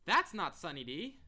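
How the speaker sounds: high, loud, slow mock proclamation; mock declaring. Quoting DJ after she takes a shot, mock declaration. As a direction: declare it big and drawn-out.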